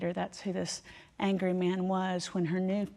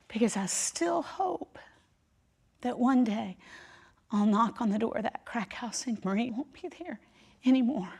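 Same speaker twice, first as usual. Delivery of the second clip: tearful; 4 semitones higher than usual. Retold or imitated. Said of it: "And I said".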